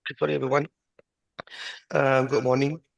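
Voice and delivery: hoarse, sore-throated speech; speaking carefully with a sore throat. Real, not acted. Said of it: "I have a very bad sore throat".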